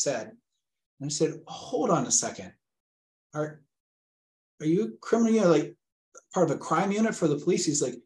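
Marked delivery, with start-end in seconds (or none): 1.5-7.7 pitched way up, baffled question; alarmed disbelief. Retold or imitated. Father to the scammer on the phone, high and baffled. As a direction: ask it as if you can't believe it.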